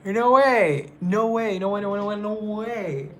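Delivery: high, loud repeated disbelief; can't believe it, say it over and over; squealing no way on repeat; shocked. Real, not acted. Shocked he is Irish.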